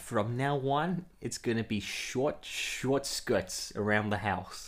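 put-on slow, drawn-out Australian accent; Margot Robbie. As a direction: stretch the quote out in Australian. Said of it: "your Australian accent kinda slipping".

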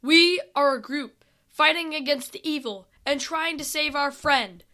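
understated yell to a distant army; mild distant yell. Acted. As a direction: call it out as if far away. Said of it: "Sam yelled as loudly as he could".

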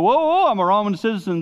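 high, loud call to halt; acted loud protest. Preacher acting Paul halting a beating, loud proud protest. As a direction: call out to stop them, playing it up.

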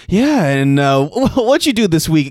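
high chirpy people-pleaser voice; lightly mocking cheery doctor; fake-nice doctor. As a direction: sound overly sweet and scripted. Impersonating overly nice robotic doctor.

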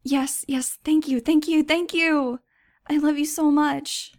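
put-on high, loud, gushing girl's thanks; overjoyed. A narrator's reading. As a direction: squeal out gratitude, bursting with joy. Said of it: "Nudge said happily".

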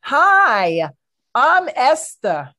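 slow New York Jewish matron; yiddish accent. Acted. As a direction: play a doting Jewish wife. Sketch character Esther.

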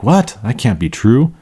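high disbelieving "What?" then settling; incredulous. Shown as a demonstration. Teacher acting out an incredulous student, high disbelief. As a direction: sound like you can't believe it. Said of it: "When you're incredulous, you're like".

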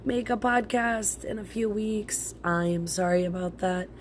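congested, sick-sounding voice. Real, not acted. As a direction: talk through a cold. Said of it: "So my voice sounds like this because I'm sick".

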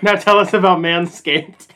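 loud teasing. Pretend. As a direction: push the request loudly. Loud teasing repeat of cut-off line.

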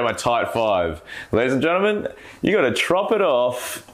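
a hammed-up comedy set; mock stand-up comic. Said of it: "I go".

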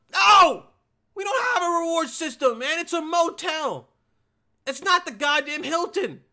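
loud, high-pitched comic tirade; exasperated shouting. Acted. Motel clerk rejecting a rewards request, exasperated shouting. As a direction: blow up at him, exploding on the first word. Acted outburst at a haggling motel customer.

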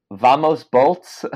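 slow drawn-out chant; quoting her cheer. Retold or imitated. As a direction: stretch the words slowly. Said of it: "And she said".

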